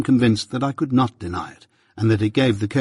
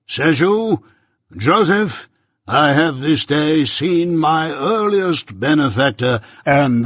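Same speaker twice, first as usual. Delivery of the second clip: lightly voiced pompous old busybody; a hint of a self-important uncle holding forth; Pumblechook, pompous; 4 semitones higher, 4 dB louder, slower than usual. Pumblechook lecturing young Pip at breakfast, lightly pompous voice.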